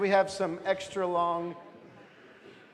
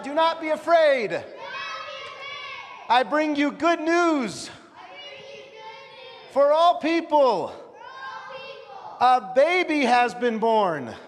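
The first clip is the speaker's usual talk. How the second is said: angels shouting; 6 semitones higher than usual. Acted. Leader playing the angels in a nativity shout. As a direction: shout it like angels across the sky. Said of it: "they shout".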